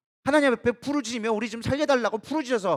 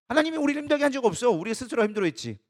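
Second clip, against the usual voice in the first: ordinary delivery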